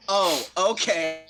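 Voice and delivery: slow, drawn-out oh okay; dawning understanding; surprised realization. Real, not acted. Realizes awe not odd.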